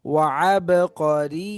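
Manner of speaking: ordinary talk, nothing marked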